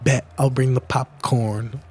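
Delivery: put-on light cutesy girl voice; a hint of a cute sweet girl. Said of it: "a cutesy little voice".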